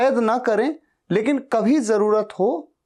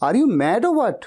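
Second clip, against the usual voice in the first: mock exasperation at a friend; playful are-you-crazy tone; exasperated teasing; 4 semitones higher, much slower than usual. Shown as a demonstration. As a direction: chide a friend, half teasing. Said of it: "हमेशा ऐसा कहना है".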